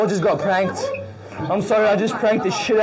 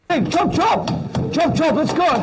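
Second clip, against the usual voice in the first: urgent hurrying; 3 semitones higher than usual. Acted. Hurrying crowd out.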